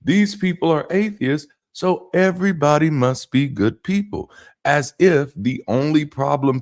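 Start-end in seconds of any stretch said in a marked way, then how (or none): 0.0-4.3 mock naive enthusiasm. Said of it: "you say".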